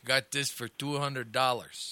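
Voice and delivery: imitating a deal lover's boast; Russ Rivas. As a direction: drag it out like a proud bargain hunter. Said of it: "he got his first laptop".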